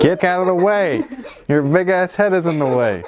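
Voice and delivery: high-pitched exasperated complaint. Real, not acted. Shooing someone out of the shot, exasperated. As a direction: shoo them off in a high, pestered voice.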